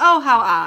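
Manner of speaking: loud, wooden, badly acted fake surprise. Retelling a character's badly acted lie: imitating Linda's fake surprise. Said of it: "They're horrible".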